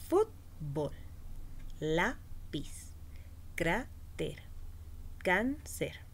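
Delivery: Fútbol, lápiz, cráter, cáncer split after the accented first syllable; stress on penultimate syllable. Shown as a demonstration. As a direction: lean on FÚT, LÁ, CRÁ, CÁN in Fútbol, lápiz, cráter, cáncer, then pause. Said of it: "llevan el acento en la penúltima sílaba". (sílabas separadas con acento en la primera de Fútbol, lápiz, cráter, cáncer)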